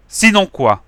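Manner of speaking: sneering. Acted. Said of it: "a ricané le bigleux".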